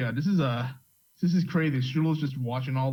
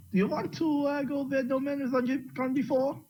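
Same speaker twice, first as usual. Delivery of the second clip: grandiose question; 12 semitones higher than usual. Acted. Asking the familiar a grand question.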